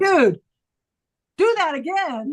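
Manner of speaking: high, loud amazed call; excited. Retold or imitated. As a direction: burst out in delighted amazement. Teacher amazed by student's low note.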